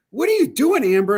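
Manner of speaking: high, loud mock yell of alarm; imitating a yell. Ryan calling out to Amber on air, mock yell. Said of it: "Ryan's like".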